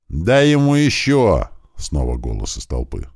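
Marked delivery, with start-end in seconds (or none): 0.1-1.5 crowd shout. Acted. Crowd egging on a beating.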